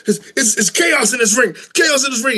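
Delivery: high, excited ringside call; Booker T commentating. Retold or imitated. Friend mimicking a wrestler calling the action in the ring, frantic commentary. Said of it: "when he was doing his commentating".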